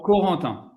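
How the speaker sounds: "Corentin" with French throaty r and nasal vowels; native pronunciation. Shown as a demonstration. Guest says own name on request, French pronunciation. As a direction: say "Corentin" as a French speaker does. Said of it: "You say it".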